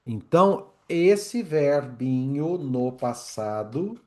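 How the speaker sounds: ordinary talk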